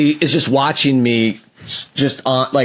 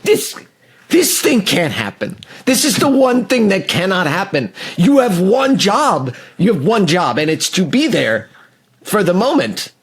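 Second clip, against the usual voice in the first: retold angry rant; 4 semitones higher than usual.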